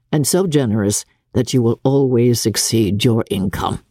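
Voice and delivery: a lightly voiced gruff father; Mr Bennet, dry. Mr Bennet teases Jane.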